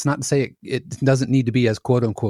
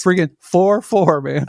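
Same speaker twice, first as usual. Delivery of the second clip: exasperated; 5 semitones higher, 4 dB louder than usual. Retold or imitated. Editor pleading for plain meter.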